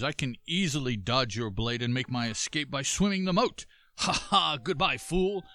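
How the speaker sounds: smug ninja jeering on the goodbye; leaping ninja voice. Acted. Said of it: "that's my leaping ninja voice".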